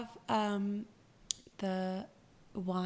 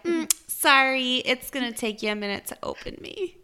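teasing wine bottle; 4 semitones higher, 6 dB louder than usual. Pretend. Bottle telling the drinker to wait, coy mock apology. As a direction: open loud on the sorry, then ease off teasingly. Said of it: "and then she's like".

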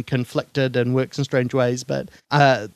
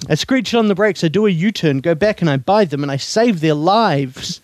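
David Lynch impression; 4 semitones higher than usual. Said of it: "let's see if I got a David Lynch".

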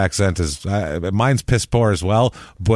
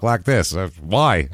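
a hint of redneck drawl; redneck accent; slower than usual. Shown as a demonstration. Showing how people talk outside the South, redneck accent. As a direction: lightly put on a redneck accent. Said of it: "It's like a redneck accent".

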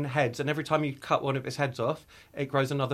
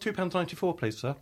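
polite cashier; 5 dB quieter than usual. Acted. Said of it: "all you hear is just like".

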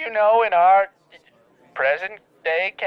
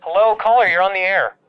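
louder DJ call-in greeting; radio host voice; 3 semitones higher, 4 dB louder than usual. Acted.

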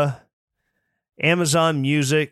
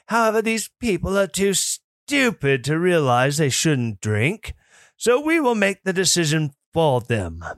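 snooty elitist voice. Retold or imitated. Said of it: "Kim says my snooty elitist voice".

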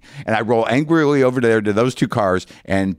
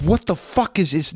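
exasperated outburst; 8 semitones higher than usual. Retold or imitated. Exasperated at rental clerk.

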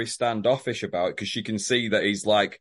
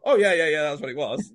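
mocking imitation; 3 semitones higher than usual. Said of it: "So don't now just go".

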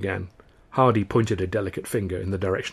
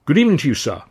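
melodious greeting; 5 semitones higher, 5 dB louder, faster than usual. A narrator's reading. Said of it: "a melodious voice said".

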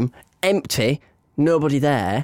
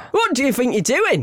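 higher-pitched mock telling-off; teacher catching pupils; 10 semitones higher than usual. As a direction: imitate a teacher pouncing on naughty pupils. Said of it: "the teacher comes out of their classroom".

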